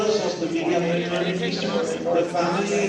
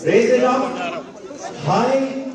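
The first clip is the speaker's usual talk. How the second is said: rallying call; 3 dB louder than usual. Real, not acted. Host rallying the audience.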